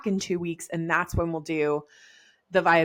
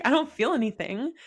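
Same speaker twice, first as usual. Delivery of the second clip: incredulous; 6 semitones higher than usual. Retold or imitated. Telling a friend about early pregnancy, incredulous. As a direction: pitch it up in wonder. Quoting own disbelief.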